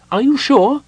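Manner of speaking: worried little voice up high; anxious Kender. A narrator's reading. Tass anxiously doubts Parlin's memory. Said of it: "Tass was anxious".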